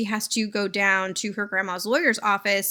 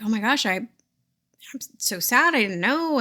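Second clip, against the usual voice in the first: breathy hushed grief, slowed right down; stunned sad whisper. Retold or imitated. Lucy hearing her grandma died, mock hushed sadness. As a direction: barely voice it, like the news just landed. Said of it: "she's like".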